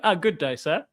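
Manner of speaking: lightly imitated British accent greeting; a touch of formal British accent. Nervous interviewee greeting the US embassy, lightly put-on British accent. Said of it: "what's with the British accent".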